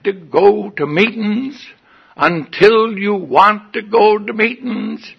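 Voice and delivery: high, loud, hammered-out mock tirade; screaming sponsor. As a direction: imitate a sponsor screaming orders, word by word. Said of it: "he started screaming".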